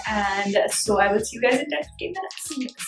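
talking during skincare mask; relaxed chat while mask sets; sheet mask on face. Real, not acted. Seen 0: Black sheet mask covers the face, mouth opening free, throughout.

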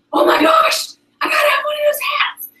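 put-on squealing high girly friend voice; mock squeal of a friend wanting a hat; excited friend. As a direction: gush like a thrilled fan. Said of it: "And she's like".

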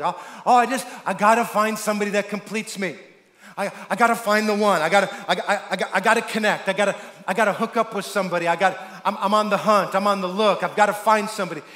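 mock desperate hunt for a partner; desperate single seeker. Preacher voicing people hunting for the one, mock desperate. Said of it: "this is the common way that people connect. They're like".

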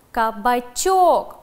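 slow, loud "Кабачок" with the stress on ЧОК; stress on the syllable. Shown as a demonstration. Teacher dictating a three-syllable word slowly. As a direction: stretch "Кабачок" and hit the final syllable. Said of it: "падает на третий слог".

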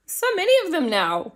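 unvoiced gossiping whisper. Real, not acted. Whispering gossip about the Kardashians to viewers.

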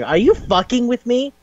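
high-pitched mock disbelief; retold girl asking if he is joking, high and shocked; incredulous. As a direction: squeak it out in disbelief. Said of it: "She was like".

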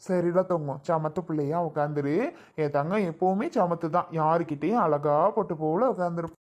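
gentle, affectionate coaxing; doting baby talk. Acted. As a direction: praise a small child tenderly. Doting talk to small child. (செல்லமா கொஞ்சிப் பேசுவது)

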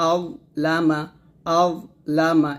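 আও held thick, then light লামা; heavy Zwa model. Shown as a demonstration. Teacher modelling the word for pupils, Zwa heavy. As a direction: separate a full আও from লামা. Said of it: "এরকম".

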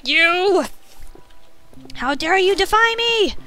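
imperious villain, high and loud; slow grand threat of a wicked queen; evil queen. Pretend. Threatening a zombie theatrically.

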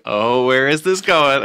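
a touch of puzzled curiosity, slow; mock curious. Cohost mimics a listener wondering where the joke goes, mildly puzzled. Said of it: "'Cause you're just like".

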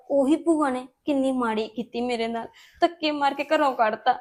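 tearful. Acted. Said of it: "ਤੂੰ ਰੋ ਨਾ".

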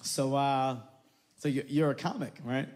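a hint of a fumbling rich white dad, giggling at his own joke. A girlfriend's father nervously setting up a joke for a comedian, chuckling. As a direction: stall and chuckle before a bad joke. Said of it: "He's like".

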